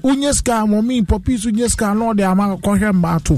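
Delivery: high, eager hype talk; excited hype. Real, not acted. Host hyping the guest's track excitedly. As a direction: hype the artist up.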